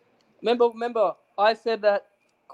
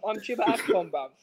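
put-on English accent; 2 semitones higher than usual. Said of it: "want me to do the English accent".

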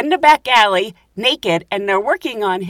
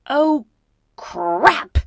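dismayed realisation; 6 semitones higher than usual. Retold or imitated. Retold realisation of trouble.

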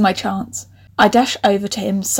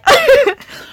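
high, loud burst of giggles; helpless laugh; 6 dB louder than usual. Real, not acted. Cracks up at own typo.

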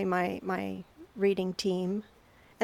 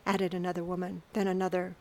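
narrator voice. A narrator's reading. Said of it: "In my narrator voice".

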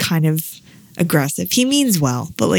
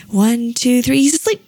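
imitated countdown; 5 semitones higher, 3 dB louder than usual. Medical team counting a boy under anesthesia, imitated countdown. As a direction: mimic the medical team's count, pitched up. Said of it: "the way they said it".

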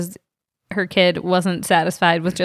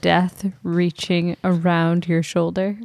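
spooky voice. Acted. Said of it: "in a spooky voice".

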